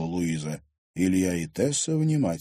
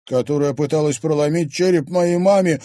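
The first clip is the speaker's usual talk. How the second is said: loud, high indignant outburst; exclaiming; 8 semitones higher, 9 dB louder than usual. A narrator's reading. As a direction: cry it out in outrage. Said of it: "воскликнула Луиза".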